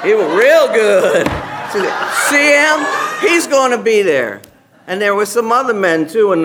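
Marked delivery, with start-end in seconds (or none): 1.7-4.4 loud, high, pointing him out; loud, eager urging; excited urging. Retold or imitated. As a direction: sell her on the guy, loud and eager. Retold sister-in-law pointing men.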